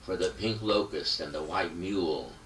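emphatic poem recital with long dramatic pauses; impassioned reading of a tribute poem; poetry reading. Acted. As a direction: read it like a poet performing for an audience. Reads poem aloud after intro.

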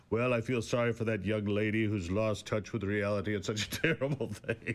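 low, mock-sorrowful imitation of the co-host; mock solemn pity. Teasing his co-host by mimicking her sympathy, mock solemn. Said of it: "And you're like".

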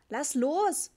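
put-on boy shaking off the director's hand, loud; loud protest. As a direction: shove the words out to be let go. Boy squirming from grip.

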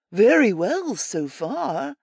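slow, timid rabbit voice; small and meek, like a shy rabbit; meek little voice. Acted. Pickett answering Errol at the fence, meek little voice. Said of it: "he says in his meek little voice".

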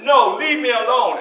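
put-on mild child's protest; small boy shooing his brother off; as a child would say. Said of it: "as a child would say".

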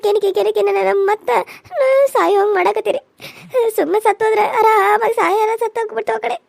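tearful despairing words; crying. Acted. Daughter-in-law tells her mother-in-law she wants to die, crying. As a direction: let the sob break the line.

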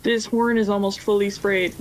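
Canadian accent slipping out. Real, not acted. Gamer commenting on spraying a horn, Canadian accent. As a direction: let a Canadian accent show unprompted. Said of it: "My Canadian accent just came out".

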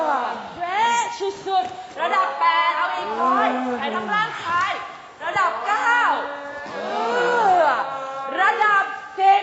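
slow, high straining shout. Shown as a demonstration. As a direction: strain to break out. (ตะโกนเค้นสุดแรง)

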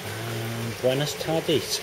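slow, drawn-out Welsh Valleys accent. Shown as a demonstration. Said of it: "In the best Valleys accent".

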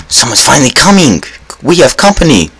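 high, bright call of delight; thrilled host call; excited. Real, not acted. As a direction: announce the guests gleefully. Spotting players while hiding.

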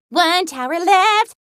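lilting call, rising at the end; eager call-out. Acted. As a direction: call it out with a lift on "left". Countdown call, first take.

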